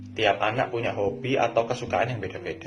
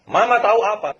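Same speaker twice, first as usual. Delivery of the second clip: much higher, louder mock snap at mom; snapping back; 9 semitones higher, 7 dB louder than usual. Shown as a demonstration. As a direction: bark back at mama, hammed-up. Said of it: "Nggak boleh dibentak balik".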